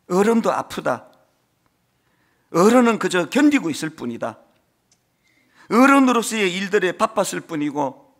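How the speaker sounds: quoting a narration. Retold or imitated. Pastor reciting a drama's narration to his congregation, earnest. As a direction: recite it like a drama's closing monologue. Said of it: "이런 그 나레이션을 펼치더라고요".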